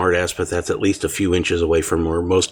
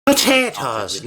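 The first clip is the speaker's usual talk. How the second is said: drawn out, pitched high, mock outrage; playful exclamation; 6 semitones higher, slower than usual. Real, not acted. Friend answers a potato chip guess with mock indignation. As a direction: stretch the word out in mock indignation.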